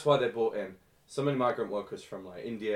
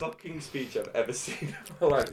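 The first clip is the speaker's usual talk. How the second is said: mock awe; 5 semitones higher, 4 dB louder than usual. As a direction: gush over it, dripping with irony. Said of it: "I'm just like".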